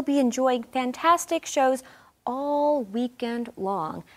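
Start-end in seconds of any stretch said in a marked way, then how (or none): 2.2-4.0 slow stress on all and long; 1 teaching the phrase. Shown as a demonstration. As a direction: stretch out all weekend long. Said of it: "this is a fun phrase that we would like you to know".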